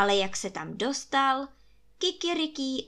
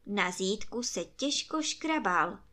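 usual speaking voice

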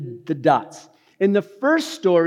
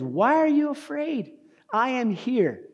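reassuring; 8 semitones higher, 3 dB quieter than usual. Acted. Jesus reassuring the frightened.

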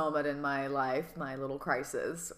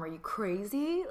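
whispered disbelief; 5 semitones higher than usual. Retold or imitated. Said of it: "she was just like".

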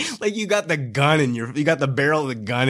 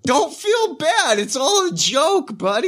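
mock sweet reassurance. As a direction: coo it like soothing a child. Teasing reassurance after apology.

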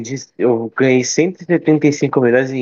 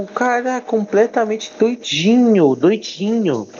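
high teasing voice; 5 semitones higher than usual. Pretend.

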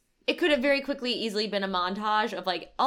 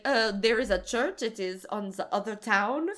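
local lady impression. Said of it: "there's one lady who's like".

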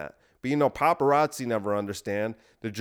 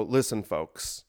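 slow presidential; 2 semitones lower, much slower than usual. Pretend. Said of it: "and I would go".

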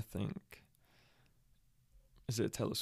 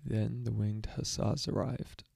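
slowly mouthed; slower than usual. Shown as a demonstration. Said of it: "try again".

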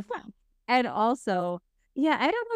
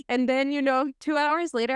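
normal talking voice

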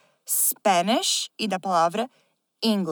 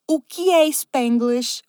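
slow dramatic whisper; slower than usual. Acted. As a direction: breathe the question out. Host poses the episode question.

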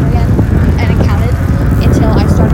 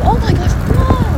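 high, slow, astonished whoa; genuinely amazed by something she just saw; real surprise; 12 semitones higher, slower than usual. Real, not acted. Vlogger spotting a cool rock, much higher surprised gasp of words.

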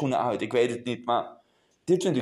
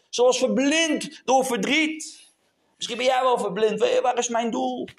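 higher-pitched, emphatic sermon delivery; raised-pitch preacher's emphasis; impassioned preaching; 7 semitones higher than usual. Real, not acted. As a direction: preach it with force. Preaches with rising force.

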